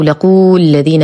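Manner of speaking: لقوا الذين with a long "oo" after the qaf; mispronunciation demo. Shown as a demonstration. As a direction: wrongly stretch the waw of لقوا into the next word. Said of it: "وهذا خطأ". (لقوا الذين بمد الواو خطأً)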